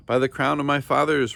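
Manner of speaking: loud, high furious roar. A narrator's reading. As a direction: roar it with royal fury. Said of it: "roared the king".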